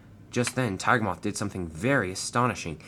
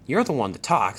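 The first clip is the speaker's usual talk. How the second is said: cross; 3 semitones higher, 3 dB louder than usual. Acted. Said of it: "said Wilbur crossly".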